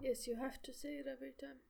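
unvoiced whisper. Real, not acted. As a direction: whisper it close to the mic. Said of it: "I couldn't hear you".

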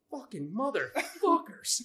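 slow, seething curse. Retold or imitated. Seething at the class.

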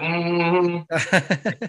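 long drawn-out gloating "mm-hmm"; gloating hum. Retold or imitated. Son rubbing a team's losses in to his mom, gloating. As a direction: draw out a smug, needling hum. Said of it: "I love rubbing it in her face".

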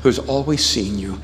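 soft, hushed altar call; closing prayer. Acted. Pastor inviting the congregation to bow their heads, hushed prayer voice. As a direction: draw the room into quiet prayer.

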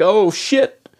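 high-pitched mock-startled exclamation; retold shocked realization. Player recalls hearing the name Marston, retold shocked realization. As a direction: act out a sudden jolt of recognition. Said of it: "I was like".

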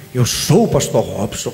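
slow, low pompous title; self-important pastor. Acted. Pastor mocking those proud of titles, pompous. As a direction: announce the title grandly, drawn out and low. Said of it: "Porque tem esse negócio".

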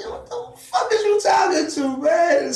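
high, loud retold shout at the driver; mock shout. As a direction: yell it at the cabbie, half laughing.

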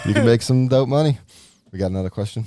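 whistling nose. Real, not acted. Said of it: "I feel like my nose is whistling".

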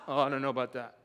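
mock hesitation, dropping in pitch; reluctant backing off. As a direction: back out doubtfully. Same man backing off at cost.

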